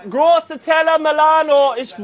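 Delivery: hawking fish to the crowd; market crier. Acted. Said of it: "I should try this now".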